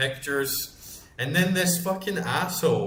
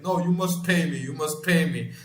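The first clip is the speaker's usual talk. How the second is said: higher, insistent mock demand; imitated foreign man; 4 semitones higher, 3 dB louder than usual. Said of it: "No, he's like".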